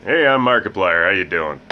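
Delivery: Markiplier impression. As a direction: mimic a hyped gaming YouTuber's intro. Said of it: "Maybe I wanna sound like Markiplier".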